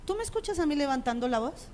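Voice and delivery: soft, contained question; calm reproof. Retold or imitated. Father pointing out nobody else is shouting, calm reproof. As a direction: correct the child without raising your voice. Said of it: "O mi esposo le dice".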